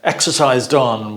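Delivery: mock nagging parent; lightly voiced scolding parent; critical parent. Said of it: "critical parent voice".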